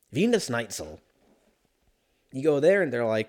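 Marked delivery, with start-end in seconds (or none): 0.1-1.0 "Wiener Schnitzel" said German-style, V and snaitsl; German-ish Wiener Schnitzel. Shown as a demonstration. Correcting himself, mock German "Wiener Schnitzel". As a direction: lean into a German "Vee-ner Schnaitzel". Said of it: "Did I say Der Wiener Schnitzel?".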